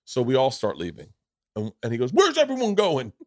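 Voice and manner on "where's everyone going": much higher, mock confused; baffled bouncer. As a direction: act the stunned doorman. Bouncer confused as group leaves.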